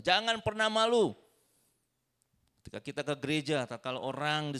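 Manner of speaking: rally the congregation with a cry; preacher's rousing shout; loud exhortation. Real, not acted.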